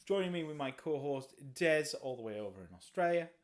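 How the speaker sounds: bright, loud welcome; podcast host voice. Acted. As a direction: greet listeners like a host. Podcast host intro again.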